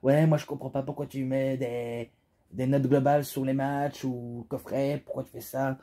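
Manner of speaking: lightly mocked complainer, words dragged out; complaining viewer. Reviewer quoting viewers who question his match ratings, mock complaint. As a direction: mildly imitate a grumbling commenter, stretching the words. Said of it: "parce que j'entends dire".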